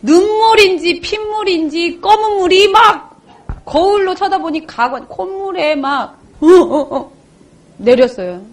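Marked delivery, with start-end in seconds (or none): 6.4-7.1 short, loud mock sobs; imitated sobbing. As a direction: act out gulping, sobbing gasps. Imitates own sobbing in elevator. (흐느끼는 소리 흉내)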